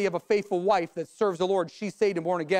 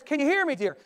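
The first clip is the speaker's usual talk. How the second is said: higher-pitched acted question; insistent test call; 6 semitones higher than usual. Husband repeating right up close.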